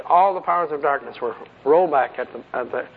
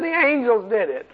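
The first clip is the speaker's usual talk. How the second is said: a raised, pitiful demon voice; mock whiny demon; 8 semitones higher than usual. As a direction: play the beaten demon confessing. Preacher voices a frightened demon.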